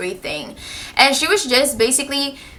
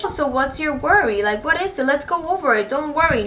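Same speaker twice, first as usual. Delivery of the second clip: higher-pitched, obliging mock reassurance; imagined kindly teacher; 4 semitones higher than usual. Teacher she expected offering to go over it, kindly. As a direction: voice a sweetly helpful teacher. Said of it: "you would think that she would be like".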